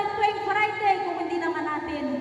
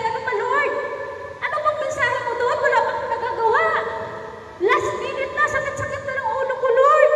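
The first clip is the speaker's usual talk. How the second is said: higher-pitched comic complaint to God; retold pleading prayer; 4 semitones higher than usual. Preacher asks the Lord for a message last minute, mock pleading. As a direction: plead in mock exasperation, bursting out on the last word.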